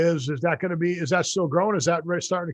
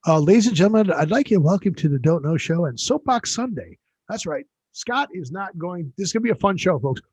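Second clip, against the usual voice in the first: announcer; 3 dB louder than usual. Pretend. Mock show host intro.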